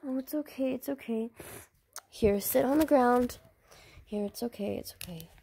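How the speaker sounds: put-on calm the crying child gently; soothing. Mother soothes hurt child.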